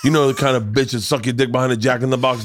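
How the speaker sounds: crude, laughing Joey Diaz rant; lightly voiced, half-laughing Joey Diaz riff; Joey Diaz impression. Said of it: "Joey Diaz would just start talking".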